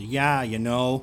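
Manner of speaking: drawn-out, slow Fargo accent. Shown as a demonstration. Showing co-host the Fargo talk, Fargo accent. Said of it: "Like that, right?".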